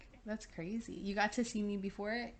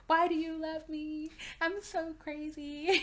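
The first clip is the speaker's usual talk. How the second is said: retold plea; 7 semitones higher, slower than usual. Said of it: "I was just like".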